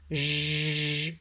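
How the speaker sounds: a long buzzing "j" consonant, no vowel; isolated sound. Shown as a demonstration. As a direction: hold the "j" sound like "zh". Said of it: "par le son j".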